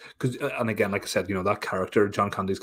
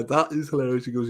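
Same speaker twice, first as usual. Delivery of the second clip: ordinary talk, nothing marked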